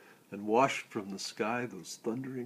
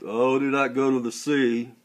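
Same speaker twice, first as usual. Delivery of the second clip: raised-voice plea called from the boats; 3 semitones higher, 11 dB louder than usual. A narrator's reading. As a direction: call it out as a warning to someone ashore. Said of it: "They called out".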